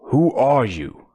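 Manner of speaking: shouting. Acted. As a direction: shout it at him. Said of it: "shouted the Toa".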